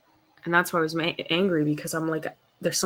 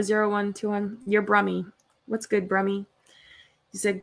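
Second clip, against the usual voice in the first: ordinary delivery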